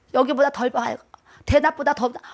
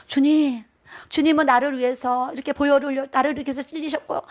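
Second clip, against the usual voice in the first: meditative prayer. Shown as a demonstration. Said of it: "요렇게 기도하세요".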